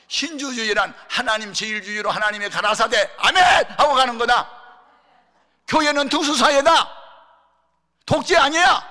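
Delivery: high, very loud preaching shout; booming retort that allows no argument; thundering declaration. Retold or imitated. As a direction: proclaim it at full force. Retells his forceful declaration to challengers.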